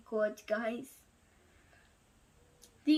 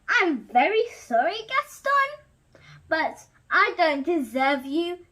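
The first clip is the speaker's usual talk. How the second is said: sarcastic; 3 dB louder than usual. Acted.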